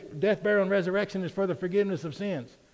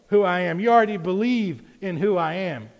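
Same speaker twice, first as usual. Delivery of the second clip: preached Jesus reply; 8 dB louder than usual. Acted. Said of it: "In other words, he's like".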